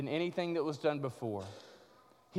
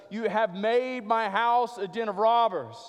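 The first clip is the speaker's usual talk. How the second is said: loud, raised, slow proclamation; crying out; 5 semitones higher, 5 dB louder than usual. Acted. One voice above all the others in the temple, crying out. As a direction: cry it out slowly above the crowd. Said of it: "one voice cry out above all the others".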